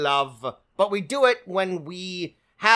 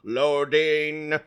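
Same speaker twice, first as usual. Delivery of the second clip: robot voice; 2 semitones higher than usual. Acted. Robot bit continues.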